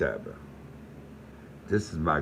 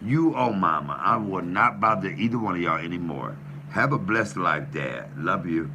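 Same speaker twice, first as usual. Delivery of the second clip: loud, higher, heated pleading; hurt angry rant; 7 semitones higher, 5 dB louder than usual. Real, not acted. Son telling off his father on the phone, loud hurt rant. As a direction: let the hurt boil over into shouting.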